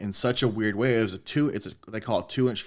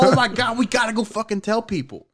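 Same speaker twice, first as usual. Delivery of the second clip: much higher, louder, gushing excitement; overjoyed; 11 semitones higher, 5 dB louder than usual. Retold or imitated. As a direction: burst with happiness at the news. Quoting own excited plan.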